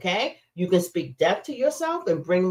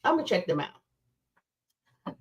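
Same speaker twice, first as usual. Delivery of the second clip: playful slow aside to chat; slow drawn-out aside; 6 dB quieter, much slower than usual. Shown as a demonstration. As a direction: drawl it out in a playful side voice. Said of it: "repeated in different voice".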